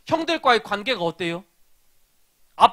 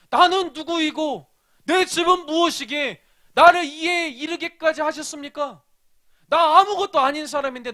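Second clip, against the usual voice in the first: grateful prayer; 5 semitones higher than usual. Retold or imitated. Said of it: "다윗이 하나님께 이렇게 고백하는 거예요".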